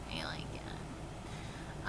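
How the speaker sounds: slow, breathy whisper of a secret; whispered aside. Real, not acted. Reviewer whispering a fond aside about Damon. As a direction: whisper it like a confession. Gushing about a favourite character.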